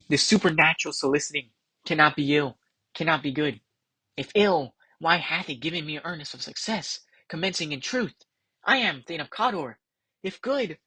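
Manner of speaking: softly recited Macbeth, pondering; Macbeth soliloquy. Acted. Macbeth puzzling over the witches' prophecy, hushed recital.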